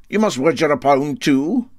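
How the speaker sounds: a sceptical local pressing him; Brodick man asking. Acted. Brodick man challenging the captain, high and pointed.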